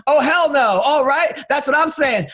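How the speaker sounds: a light impression of hecklers shouting back at the stage; older black women. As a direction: talk back at the comic like a sassy older lady in the crowd. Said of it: "Older black women".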